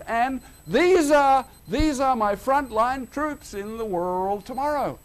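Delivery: a hint of a fond, wry Jesus; voicing Jesus. Preacher voicing Jesus watching festival keepers, mild amusement.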